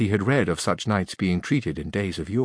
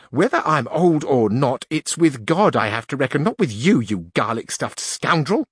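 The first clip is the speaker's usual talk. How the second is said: a touch of indignant fury, higher; angry old duenna; 4 semitones higher than usual. Acted. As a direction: put him in his place. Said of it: "all aglow with anger".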